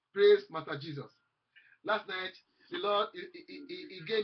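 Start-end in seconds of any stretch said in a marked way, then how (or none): 0.1-1.1 loud praise. Acted. Preacher's exclamation.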